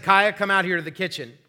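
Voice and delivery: dad summoning his daughter, voice up; fatherly tone. Retold or imitated. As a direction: call the child in like a dad in charge. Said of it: "using my fatherly tone".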